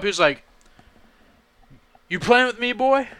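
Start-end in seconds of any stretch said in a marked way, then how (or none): 2.1-3.1 lightly voiced tough old-man challenge; a hint of movie gunslinger, retelling it; Clint Eastwood. Old guy confronts driver at the drive-thru window, lightly imitated tough challenge. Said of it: "Is that Clint Eastwood?".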